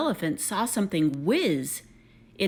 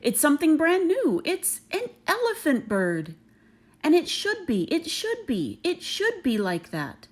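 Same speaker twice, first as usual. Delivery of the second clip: amazed shout; 7 semitones higher than usual. Acted. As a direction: marvel at the new creature. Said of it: "they shouted".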